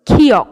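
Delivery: খিয়ক opened with a forceful fused k-kh; k-kh blend. Shown as a demonstration. Teacher naming the letter for learners, k-kh blend. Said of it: "কয় খয় একসাথে উচ্চারণ করবেন".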